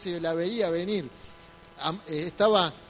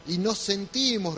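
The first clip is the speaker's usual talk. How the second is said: "sentimos" slowed and leaned on; slow emphasis on "sentimos"; stress on sentimos. Shown as a demonstration. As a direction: hit the word "sentimos" slowly. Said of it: "remarco la palabra sentimos".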